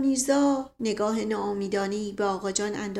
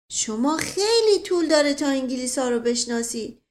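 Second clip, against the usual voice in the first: a slightly higher, lightly voiced village servant, chatty; old servant Mashqasem; 5 semitones higher, 4 dB louder than usual. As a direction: tell it like a simple old servant who loves a tale. Mashqasem lectures the colonel.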